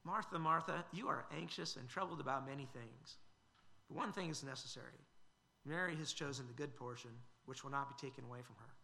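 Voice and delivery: kind, gracious correction. Retold or imitated. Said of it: "Jesus kindly, graciously corrects her".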